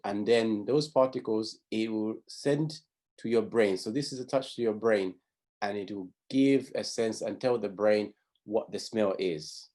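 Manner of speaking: ordinary delivery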